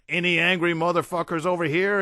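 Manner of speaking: high, loud shout to a crowd; rousing shout. A narrator's reading. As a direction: call out a challenge to the audience. Performer rousing concert crowd.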